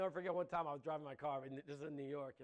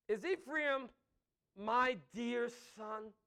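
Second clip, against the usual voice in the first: slow, lingering over my dear son; tender affection; 2 semitones higher, 6 dB louder, much slower than usual. Shown as a demonstration. Preacher reading God's words about Ephraim, tender. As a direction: cradle the words like a father. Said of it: "Do you hear the affection?".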